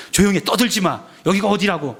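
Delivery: mild mock rebuke, easing off slightly; retold scolding. Crowd silencing the noisy beggar, mock scolding. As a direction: imitate an indignant onlooker telling someone off. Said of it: "뭐라고 꾸짖었겠습니까?".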